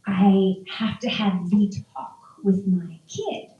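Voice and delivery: a hint of mock solemn parent; dreading parent. Parent announcing the talk with their kid, mock dread.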